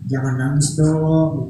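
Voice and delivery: slow, gentle coaxing; soothing a child. Acted. Prophet comforting the pulpit, gentle and slow. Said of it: "Kayak anak kecil gitu".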